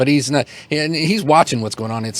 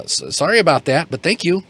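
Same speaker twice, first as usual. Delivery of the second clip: a hint of a flustered kid, a bit higher; sheepish apple seller; 5 semitones higher than usual. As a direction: stammer an embarrassed thanks. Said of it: "holds it up to you and says".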